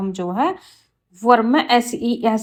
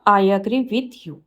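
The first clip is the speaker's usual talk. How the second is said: slow, careful read of the corrected sentence; slow teacher dictation; 2 semitones lower, slower than usual. Shown as a demonstration. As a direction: lay out each word clearly for the class. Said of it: "right होगा".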